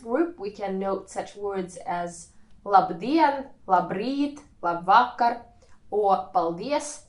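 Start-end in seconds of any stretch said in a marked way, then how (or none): 2.7-3.5 "labdien" stressed on DIEN; stress on second syllable. Shown as a demonstration. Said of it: "the stress is on the second syllable". 3.7-4.4 "labrīt" stressed on RĪT; stress on second syllable. Shown as a demonstration. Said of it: "The same thing refers to labrīt". 4.6-5.4 "labvakar" stressed on VA; stress on second syllable. Shown as a demonstration. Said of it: "and labvakar".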